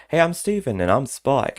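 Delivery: high, drawn-out imitated greeting; retold video line. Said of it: "say something like".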